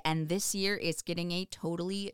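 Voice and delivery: upbeat event announcer read; promo read. Acted. Host reading aquarium fundraiser promo, announcer style. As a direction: sell the fundraiser to listeners.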